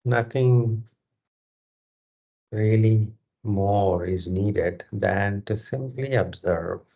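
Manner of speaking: measured meditation guidance with long, spacious pauses; guided meditation. Real, not acted. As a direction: guide them through breath awareness, phrase by unhurried phrase. Leads a breathing meditation.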